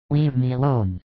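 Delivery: a mild rude dismissal; rude Judas. Acted. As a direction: Judas curtly telling Mary to leave him. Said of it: "says Judas rudely".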